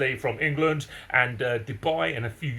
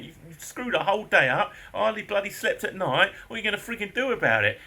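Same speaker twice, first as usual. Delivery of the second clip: angry intimidation; 8 semitones higher than usual. Retold or imitated. Intimidating neighbour.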